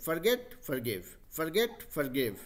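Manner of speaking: slow, even chant of Forget, forgive; unhurried, rhythmic Forget, forgive for repeating; relaxed singsong drill. Shown as a demonstration. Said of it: "गाना गा रहे से". (Forget, forgive आराम से, गाने की लय में)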